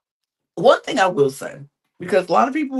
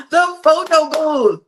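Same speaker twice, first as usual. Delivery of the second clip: higher, louder, slow dramatic repeat; mock dramatic announcer; 11 semitones higher, 7 dB louder, slower than usual. Vlogger hamming up a dating show moment in a dramatic voice. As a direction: ham up the phrase like a trailer.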